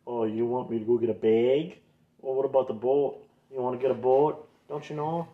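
mock the Midwest "bag" and "boat"; lightly exaggerated Minnesotan; mocked Minnesotan accent. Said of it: "I got so much shit for".

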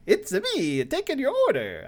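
bouncy put-on plumber voice. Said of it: "my only other go-to is Mario".

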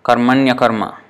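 "karmanya karma" with a y glide linking the words; joined sandhi form. Shown as a demonstration. Teacher showing the vowel change to students, joined sandhi form. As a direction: say "karmanya karma" as one word. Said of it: "yes, it becomes karmanya".

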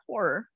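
"Horror" ending in a soft "-er". Shown as a demonstration. Correcting the spelling for friends, "Horror" as "hor-er". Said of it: "There's an E R".

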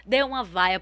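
ordinary talk, nothing marked

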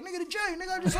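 hyped-up promoter voice, mocking him; imitating the caller. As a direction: bark it like the pushy promoter on the phone.

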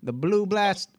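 high, loud attempt at British; mock British accent. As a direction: try a tongue twister in fake British. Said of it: "do it with a British accent".

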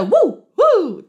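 high, drawn-out "woo" imitating rap ad-libs; mocking rap whoops. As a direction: mimic a rapper's whoops with scorn. Mimics disliked rap ad-libs.

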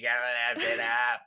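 lightly voiced Kennedy Boston accent; imitating JFK, tongue in cheek; JFK impression. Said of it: "it's like J F K".

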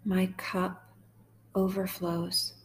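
slow, measured psalm reading with long pauses; guided meditation. Acted. Host leading sad listeners through Psalm twenty-three, slow guided meditation. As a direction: read gently line by line, leaving space to repeat.

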